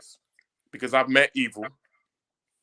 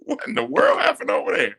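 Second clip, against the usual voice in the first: higher, sudden alarm at a noise; startled; 10 semitones higher than usual. Real, not acted. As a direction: react to a crash with real surprise. Startled by a crash.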